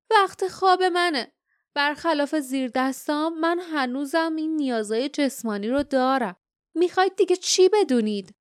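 high-pitched villain announcing his bedtime; lofty and impatient, voice lifted high; bored haughty guardian. Acted.

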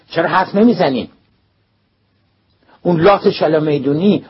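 loud, high, furious scolding; furious principal. A narrator's reading. Principal Bahrami shouting at the silent schoolboys in fury. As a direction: tear into the boys with rage.

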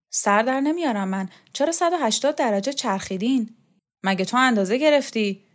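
put-on puzzled young man pressing his point; Borzu's voice. Young student Borzu speaking.

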